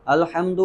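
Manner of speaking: "الحمد" with a slurred, weak opening a; "الحمد" without a firm glottal onset; unclear hamza. Shown as a demonstration. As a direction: show the mistake, gliding over the start of "الحمد". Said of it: "تو یہ حمزہ واضح نہیں ہے".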